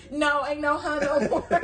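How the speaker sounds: slow, laughing sass; sassy. Retold or imitated. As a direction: drag it out with attitude. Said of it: "I'm like".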